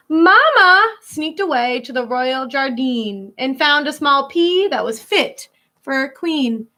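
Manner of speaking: put-on lilting read-aloud for kids; storybook reading. Teacher reading a rhyming picture book to children, lilting. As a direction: read the rhyme to a class.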